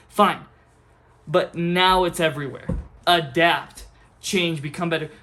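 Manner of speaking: loud, punchy scolding; angry rant. Real, not acted. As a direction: bark it out, fed up. Ranting at teachers.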